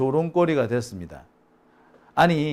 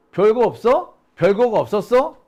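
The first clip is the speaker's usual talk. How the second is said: louder, higher incredulous echo; raised, scandalized questioning; indignant disbelief; 6 semitones higher, 7 dB louder than usual. Acted. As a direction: throw the dismissal back as an outraged question. Indignant echo of press's dismissal.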